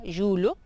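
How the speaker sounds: YULO as "julho", palatal l, rising; Portuguese LH. Shown as a demonstration. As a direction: say "yulo" with mouth slightly closed. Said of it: "siempre la boca un poco más cerrada".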